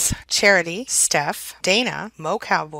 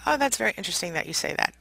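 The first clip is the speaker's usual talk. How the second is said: bland gray rock; 7 dB quieter, faster than usual. Shown as a demonstration. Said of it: "You simply do something like".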